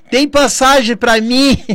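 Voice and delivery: very high-pitched, shrill, loud shout. Describing people asking for tickets at the last minute, imitating people shouting. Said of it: "já começa a gritar".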